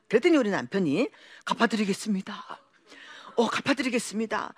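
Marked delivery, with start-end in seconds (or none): 1.4-4.5 humble whisper. Retold or imitated. Husband pleads with creditor.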